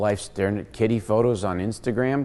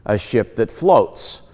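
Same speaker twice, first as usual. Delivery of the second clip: normal talking voice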